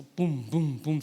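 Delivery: low, spaced "pum" thuds; thudding heartbeat noise; imitated heartbeat thumps. Imitates own pounding heart.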